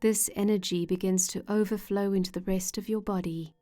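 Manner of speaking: calm, measured meditation voice with long pauses; unhurried guided-imagery narration, phrase by phrase. Acted. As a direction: gently guide the listener into relaxation.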